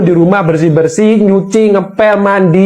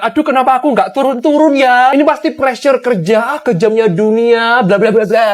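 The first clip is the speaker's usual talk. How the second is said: whiny mock of a social media complaint, higher; mock complaining; 4 semitones higher than usual. Comedian mocking picky eaters' whiny online complaints. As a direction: parody the self-pitying post. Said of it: "ngeluh di sosmed".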